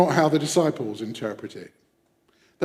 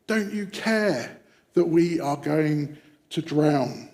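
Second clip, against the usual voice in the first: slow, deliberate reproach; accusing plea; 2 semitones higher, slower than usual. Acted. Disciples pressing sleeping Jesus as the boat sinks, slow accusing plea. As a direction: spell out the accusation slowly, word by word. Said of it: "and shout at".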